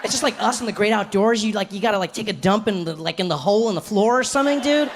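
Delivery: lightly imitated dude enthusiasm, lilting up on dude; enthusiastic white friend. White friend inviting him camping, mock enthusiasm. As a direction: pitch it like an eager camper. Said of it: "like, with enthusiasm".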